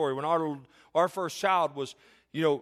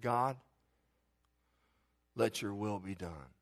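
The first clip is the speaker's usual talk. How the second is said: hard surrender prayer; 7 semitones lower, 6 dB quieter, slower than usual. Retold or imitated. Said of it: "and this wasn't easy".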